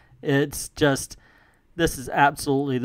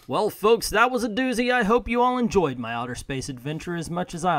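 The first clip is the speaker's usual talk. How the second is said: hammed-up Southern Colonel accent, a touch higher; folksy Southern Colonel accent sign-off; mock Southern Colonel accent, greeting the readers; 4 semitones higher than usual. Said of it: "I'm not doing the accent anymore".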